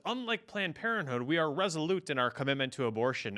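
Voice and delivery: high, pompous mock-spokesperson voice; hammed-up proud spokesperson; mock agency statement. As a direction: announce it like a self-righteous press release. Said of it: "and says".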